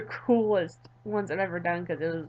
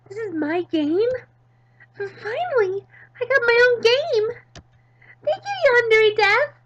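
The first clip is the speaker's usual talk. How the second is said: higher and louder, bursting with joy; overjoyed shout; 12 semitones higher, 9 dB louder than usual. Acted. Midori cheering that she finally got her own game. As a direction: shout it like a dream just came true.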